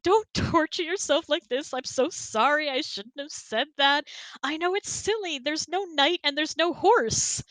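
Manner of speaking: mock distraught girlfriend; emotional girlfriend. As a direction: overwrought pleading, slowing at the end. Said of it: "she's like".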